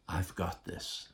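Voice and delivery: soft, slow hushed voice of God; gentle whisper. Acted. Preacher voicing God's reassurance to the congregation in a soft hush. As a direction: breathe it like a tender secret. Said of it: "shows up in a gentle whisper".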